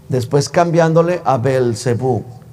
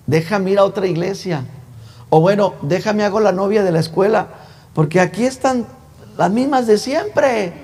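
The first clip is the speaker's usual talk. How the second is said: mock complaint; 5 semitones higher than usual. Young churchgoer grumbling there are no girls for him, mock complaint. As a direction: imitate a fed-up youth, stretching the ending.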